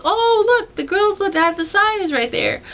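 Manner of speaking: high, loud singer impression; Bill. Singer spotting the girls with the sign, excited imitation. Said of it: "And so Bill comes over".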